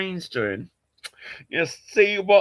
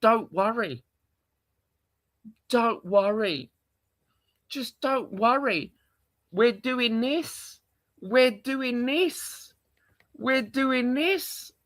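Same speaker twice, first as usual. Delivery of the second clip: mock reassurance; 4 semitones higher, slower than usual. Streamer imitating fans telling him not to worry, slow and mocking. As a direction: drawl out the empty comfort. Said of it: "I've got people telling me".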